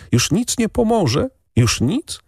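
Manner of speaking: put-on a boy's pleading, hurting question, high and hushed; pained whisper. A narrator's reading. Boy asks the lady over the dying partridge, pained. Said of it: "szeptał z bólem".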